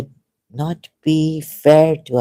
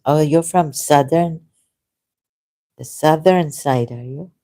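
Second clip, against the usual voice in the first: normal talking voice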